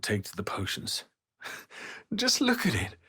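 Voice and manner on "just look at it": high, laughing coo; fond admiration. Acted. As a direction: admire an adorable little creature. Admiring the little owlbear.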